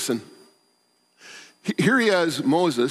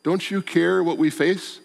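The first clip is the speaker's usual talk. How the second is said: high, pleading cry to Jesus; anxious high plea, voice rising; desperate plea; 3 semitones higher, slower than usual. Retold or imitated. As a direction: beg like someone caught in a storm. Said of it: "face a new storm and say".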